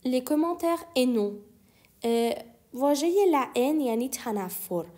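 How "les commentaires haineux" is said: les commentaires haineux, slowly; slow repeat. Shown as a demonstration. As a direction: model it slowly for learners. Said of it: "teacher repeats slowly".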